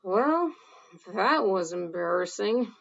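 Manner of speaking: sheepish embarrassed voice. Acted. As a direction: laugh it off awkwardly. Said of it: "next one".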